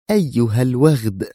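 a half-voiced insult hurled in anger; angry cry. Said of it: "هتفت في غضب".

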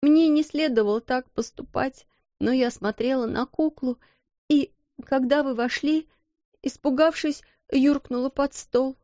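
put-on high, timid servant girl voice; frightened little maid. Maid explains to the headmistress, high and timid. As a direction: plead your way out, scared.

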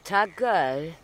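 loud, clipped shut-up in French; brusque French put-down; sharp rebuke. Acted. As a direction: cut him off loudly. Lover snaps at him.

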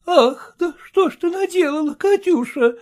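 high, loud lament of a crying mother; voiced old mother close to tears; tearful mother. A narrator's reading. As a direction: wail over the daughter's deed. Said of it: "Обе плакали".

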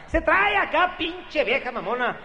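very high, slow, haughty falsetto; wife to her compadre on the phone, high slow snooty voice. Retold or imitated. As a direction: drag out a stuck-up lady voice. Wife then husband voices high.

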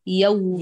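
يومي with a clean open fatha on ya; open fatha model. Shown as a demonstration. Teacher modelling the open fatha on ya. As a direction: keep the ya in يومي fully open. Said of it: "فتح يا".

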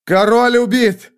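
high, loud, drawn-out cry; cry through ranks. A narrator's reading. Soldiers spread word the king is killed, high long shout. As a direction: call the dreadful news across the field. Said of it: "разнеслось по рядам воинов".

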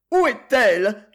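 mother pleading, voice lifted in worry; anxious wail. Acted. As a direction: call out for the missing daughter in alarm. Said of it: "gémissait la baronne".

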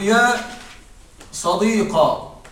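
slow صديقا ending on an open "qa"; drawn-out يا صديقا with fatha on the qaf. Shown as a demonstration. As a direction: say صديقا slowly, closing on an "a" vowel. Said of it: "ثم حذف الألف".

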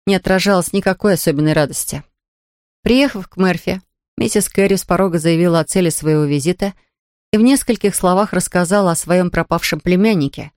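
plain reading voice

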